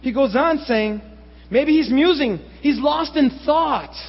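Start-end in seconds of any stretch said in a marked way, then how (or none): 1.5-4.0 mocking suggestion, drawn out at the end; mildly acted mockery. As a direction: taunt them with a lifted, lingering finish. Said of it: "Elijah's mockery".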